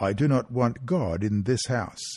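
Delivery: ordinary delivery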